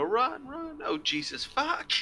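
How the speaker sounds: high panicked goblin voice; a goblin fleeing in terror. Acted. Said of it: "it's gonna go".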